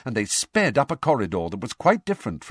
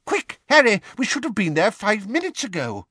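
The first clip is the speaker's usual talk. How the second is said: high, louder urgent call; urgent hurry; 12 semitones higher, 4 dB louder than usual. A narrator's reading. Mr Weasley hurrying Harry to the hearing, high and urgent. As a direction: rush Harry out the door.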